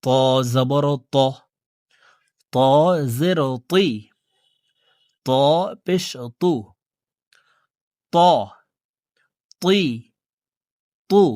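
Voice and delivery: thick, emphatic t on "ত, তুই, তু"; heavy Arabic ta. Shown as a demonstration. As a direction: drill "ত, তুই, তু" with a heavy, full t. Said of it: "মোটা করে পড়ব". ("ত, তুই, তু" মোটা করে উচ্চারণ)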